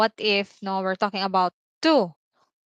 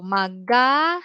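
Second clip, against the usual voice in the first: slowed breakdown; much slower than usual. Shown as a demonstration. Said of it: "maganda becomes".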